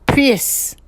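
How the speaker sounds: hammed-up Kiwi "Press."; her normal press. Vlogger mocking how the detective normally says "Press." with an i. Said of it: "the way she would normally say it".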